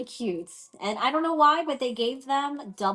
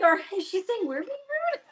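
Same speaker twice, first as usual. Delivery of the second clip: surprised; 12 semitones higher, 4 dB louder than usual. Retold or imitated. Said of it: "I was like".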